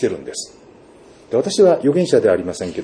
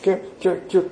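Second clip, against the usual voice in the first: small, high squeezing noises; wringing sound effect; 8 semitones higher, faster than usual. Retold or imitated. Preacher shows laundry wrung by hand, imitated squeezing. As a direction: imitate wringing cloth in short, high squeaks.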